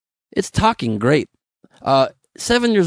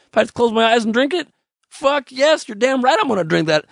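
higher, quick burst of delight; mock excitement; 8 semitones higher than usual. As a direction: gush over the drink with a pitched-up yes. Imagining a fruity drink.

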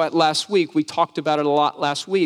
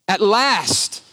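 emphatic exclamation; 4 semitones higher, 3 dB louder than usual. Acted. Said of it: "it's emphatic".

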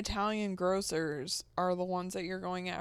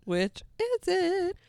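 mock confused typist; 10 semitones higher, slower than usual. Friend mimics the confused typist.

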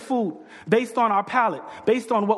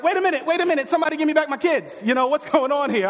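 mock alarm; 5 semitones higher than usual. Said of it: "And I was like".

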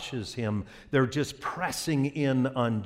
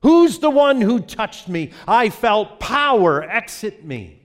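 Jesus asking; 9 semitones higher, 9 dB louder than usual. Acted. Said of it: "Jesus turns to the disciples and says".

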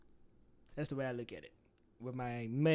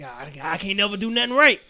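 louder, higher whiny lament; mock self-pity; 4 semitones higher, 11 dB louder than usual. Person blamed too much, mock whiny. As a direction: wail that nothing you do is right.

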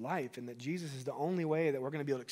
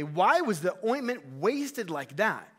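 raised, loud, drawn-out complaint; indignant; 4 semitones higher, 6 dB louder, slower than usual. Acted. Disciples objecting to the wasted ointment, indignant. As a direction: protest it slowly and loudly, offended. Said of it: "So some are indignantly".

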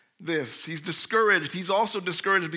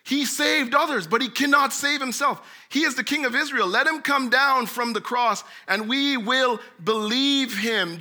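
mild mockery; 3 semitones higher than usual. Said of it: "mocked him and said".

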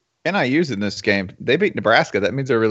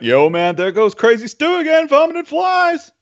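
Detroit local; 13 semitones higher, 4 dB louder than usual. Retold or imitated. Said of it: "They'd be like".

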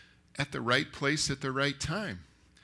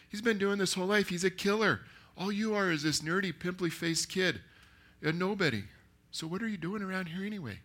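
raised pitch, insistent disbelief; dismissive movie friend; 6 semitones higher than usual. Acted. Friend talking the kid out of fighting, dismissive. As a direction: put him down in a higher, incredulous voice. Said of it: "He goes".

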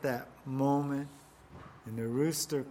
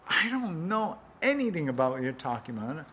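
hasty denial; faster than usual. Acted. Peter's third denial.

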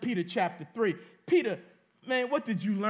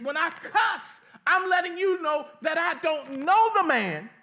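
heated Peter; 4 semitones higher, 4 dB louder than usual. Acted. Peter shouting at the people linking him to Jesus, heated. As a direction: voice climbs to a shout by the end. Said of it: "he was saying".

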